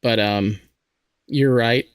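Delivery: raspy, sore throat voice; hoarse like a smoker. Real, not acted. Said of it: "I sound like a smoker".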